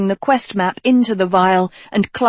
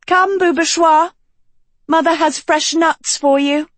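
Sophie's voice; 8 semitones higher than usual. A narrator's reading. Sophie calls her mongoose.

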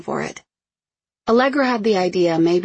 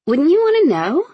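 pushing higher and louder on want; insistent high question; 11 semitones higher, 7 dB louder than usual. A narrator's reading. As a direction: press her, voice climbing. Pressing question.

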